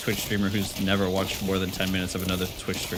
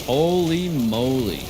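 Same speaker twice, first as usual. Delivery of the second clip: amazed holy moly; 3 semitones higher, 5 dB louder, much slower than usual. Real, not acted. Reacting to big damage.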